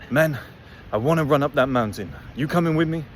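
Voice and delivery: lightly imitated Swiss accent; little Swiss accent. Imitating a friend eager to run up a mountain, light Swiss accent. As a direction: put on a hint of a Swiss accent. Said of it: "I'll do a little accent".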